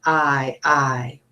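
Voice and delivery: long "I" repeated; 重复长音"I". Shown as a demonstration. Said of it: "circle the one that shows I".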